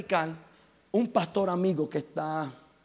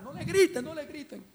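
re-enacted tearful plea; 8 semitones higher than usual. Preacher in tears begs crowd to stop shouting, pleading. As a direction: beg tearfully, dropping away at the end. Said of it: "Comencé a llorar".

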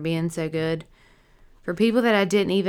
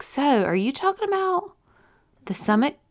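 nurse's surprised question; 8 semitones higher than usual. Retold or imitated. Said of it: "she whipped around and she was like".

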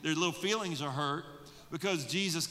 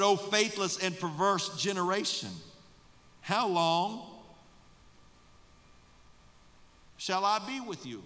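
raised, exasperated rebuke; Jesus rebuking; 4 semitones higher, 4 dB louder than usual. Acted. Jesus scolding faithless disciples, raised voice. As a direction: let the frustration ring out.

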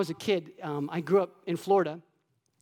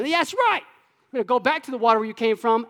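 taunting; 3 semitones higher than usual. Retold or imitated. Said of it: "Taunting waves".

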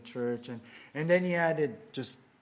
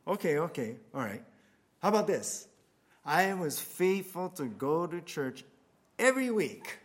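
higher and louder, indignant disbelief then eager pleading; shocked man; 4 semitones higher, 3 dB louder than usual. Acted. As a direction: play the man stunned by the tiny score, then trying harder. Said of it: "And the man's like".

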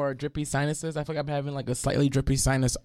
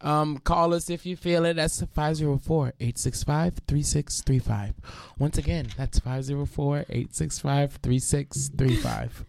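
measured phone-number read; commercial voice. Real, not acted. Host giving listeners the call-in number, commercial voice. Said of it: "Practice on your commercial voice".

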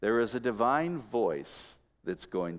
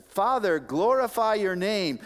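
higher, louder cry in a preacher's voice; 9 semitones higher, 6 dB louder than usual. Retold or imitated. Preacher voicing Jesus crying out to his Father, raised voice. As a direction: cry it out as a prayer. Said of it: "he cries out and says".

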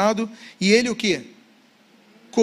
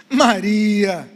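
drawn-out, falling call of her name; tender calling of a name; 5 dB louder than usual. Acted. Jesus reveals himself to Mary by saying her name, tender and drawn-out. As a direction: speak the name slowly, so she recognizes you. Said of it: "Eu não sei qual a entonação".

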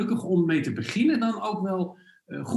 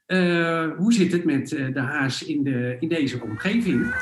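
wind on mic. Real, not acted. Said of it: "Excuses voor de wind".

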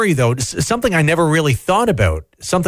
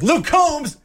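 chicken voice; 12 semitones higher than usual. Pretend. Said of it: "the chickens are like".

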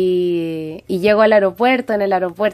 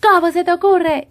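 slap-like voice; 9 semitones higher, 3 dB louder than usual. Retold or imitated. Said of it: "como con voz de cachetada".

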